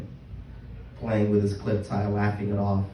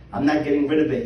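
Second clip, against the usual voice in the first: stubborn father; 3 semitones higher, 6 dB louder, much faster than usual. Acted. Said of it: "he said".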